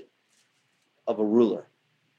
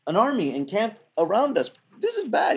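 panicked servant; 8 semitones higher than usual. Retold or imitated. Servant boy sees enemy army.

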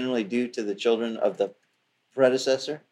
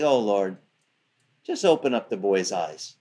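calm prophet; 5 semitones lower than usual. Retold or imitated. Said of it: "the prophet's all calm".

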